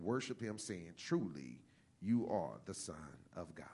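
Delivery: measured, solemn Bible reading; scripture reading. Acted. Pastor reading Matthew to his congregation, solemn and measured.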